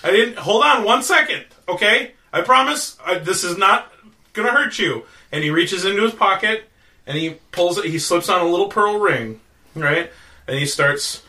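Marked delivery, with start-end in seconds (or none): 0.0-5.0 raised-pitch nervous reassurance; frightened pleading, acted. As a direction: beg an armed stranger to wait. Wizard begs with knife at knee.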